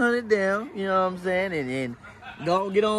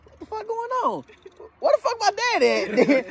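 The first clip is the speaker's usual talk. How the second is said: higher, shocked cry of disbelief; retold alarmed outburst; 10 semitones higher than usual. Rider retelling his shock at the crash, higher and alarmed. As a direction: yelp in confusion at the missing rider. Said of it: "I say".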